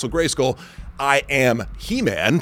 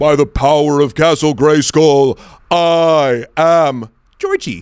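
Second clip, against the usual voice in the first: booming, very slow announcer delivery, long drawn-out I; 2 semitones higher, 7 dB louder than usual. Imitating the line his dad used to say, in a booming radio voice. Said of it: "booming radio voice".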